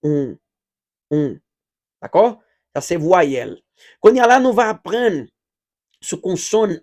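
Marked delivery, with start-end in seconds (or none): 0.1-1.3 "On" nasal, same as before. Shown as a demonstration. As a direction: say "On" through the nose. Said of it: "ou pwononse nan menm jan". (pwononse "On" ak son nen)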